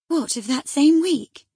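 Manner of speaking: high, loud, slow disbelief; astonished exclamation. Acted. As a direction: stretch out your shock. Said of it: "she exclaimed".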